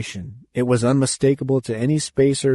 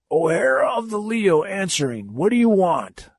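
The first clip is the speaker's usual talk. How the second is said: high, gruff skipper answering; defiant old captain; 7 semitones higher than usual. Acted. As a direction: answer the enemy with a knotted fist.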